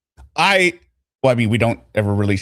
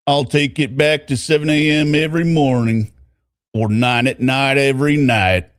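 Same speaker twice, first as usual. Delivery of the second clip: put-on Southern accent; 3 semitones higher than usual. Boyfriend says he'd wait a year, Southern accent. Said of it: "trying to do a Southern accent".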